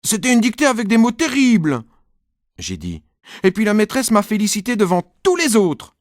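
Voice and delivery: put-on high, loud proud little boy; boasting child. Nicolas insists to mom about his dictation, high and loud. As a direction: brag to win the cake.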